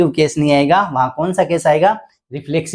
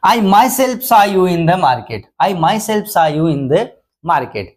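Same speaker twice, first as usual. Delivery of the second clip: slow dictation; 3 semitones higher, much slower than usual. Shown as a demonstration. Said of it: "जोर लगाया".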